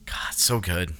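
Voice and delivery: softly whispered, breathless awe; awed whisper. Real, not acted. Friend whispers his awe at the movie. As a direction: breathe it out under your voice.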